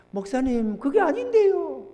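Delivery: high, drawn-out plaintive objection; protesting church member. Retold or imitated. Church member protests to the pastor, high mimicked whine. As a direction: mimic a meek member pleading innocence. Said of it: "성도들이 이렇게 하는 거예요".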